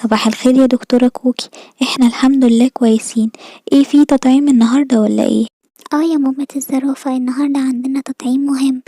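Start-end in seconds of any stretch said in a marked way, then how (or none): 0.0-5.5 giraffe mother voice. Acted. Giraffe mother greets doctors.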